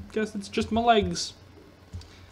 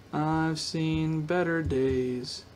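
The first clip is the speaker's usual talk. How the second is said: slow, drawn-out world-weary line; mock weary lament; 2 semitones lower, 3 dB quieter, much slower than usual. Gamer lamenting a bad cave, slow mock drama. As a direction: sigh it out like a tired old hero.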